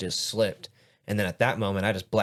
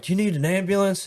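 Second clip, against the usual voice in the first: concerned coworker; 10 semitones higher, 3 dB louder than usual. Retold or imitated. Coworkers asking after fall.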